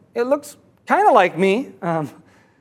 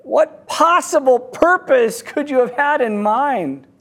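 higher mock yell, slowing at the end; 4 semitones higher than usual. Rope holder confronting the dangling man, mock yell. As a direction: demand an answer, calling down without full force. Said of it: "He yells down again".

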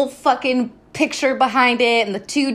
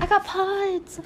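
1 smug Connor; 9 semitones higher, 5 dB quieter, slower than usual. Retold or imitated. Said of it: "he's like".

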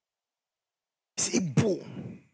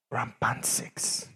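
whispered; 6 semitones lower, 13 dB quieter, much slower than usual. Shown as a demonstration. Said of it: "repeated phrase, whispered take".

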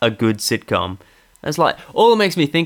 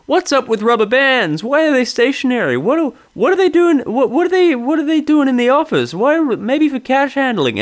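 hammed-up wise-guy stand-up; 13 semitones higher than usual. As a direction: squeeze out a hack bit. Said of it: "says it in a wise guy voice".

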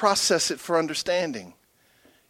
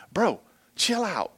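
laid-back calm; 2 semitones higher, 5 dB quieter, slower than usual. Retold or imitated. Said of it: "That's how he talks to me".

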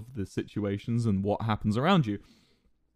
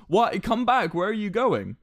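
higher, lightly voiced girl, a touch pleading; mock girl calling after; 9 semitones higher, 3 dB louder, slower than usual. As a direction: call after him like a clingy girlfriend. Girl calls him back.

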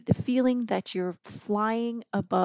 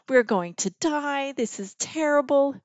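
higher-pitched mock despair; retold panic; 5 semitones higher than usual. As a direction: wail it lightly, as if doomed. Retold panic during the ride.

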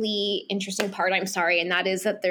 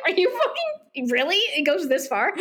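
higher, giggly mock incredulity; laughing disbelief; 5 semitones higher than usual. Boy reacting to girl's secret, laughing mock disbelief. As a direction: squeak out his disbelief while laughing. Retold disbelief, teller cracking up.

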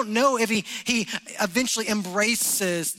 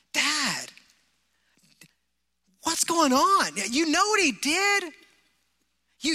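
higher-pitched, indignant protest to Dad; angry older brother; 5 semitones higher than usual. Retold or imitated. Older brother complaining to his father about the feast, higher and angry. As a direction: play the resentful son, pitched up and aggrieved. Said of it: "in this older brother's voice, the anger".

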